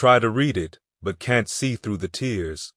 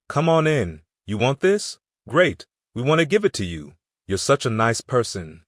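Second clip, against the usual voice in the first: mock welcome; 3 semitones higher than usual. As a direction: parody the world welcoming you with open arms. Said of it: "don't expect everybody to say".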